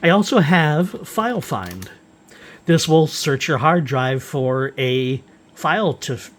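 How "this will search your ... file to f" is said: tripping over words; stumbling, restarting the word; stuttering. Real, not acted. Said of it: "I'm stuttering in my speech".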